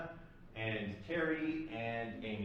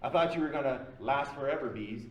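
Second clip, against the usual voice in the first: retold teasing yell; 2 semitones higher than usual. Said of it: "Terry yells from the other side".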